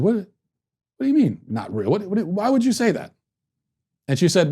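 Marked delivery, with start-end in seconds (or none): 0.0-3.1 retold shock. Shocked dad answers daughter.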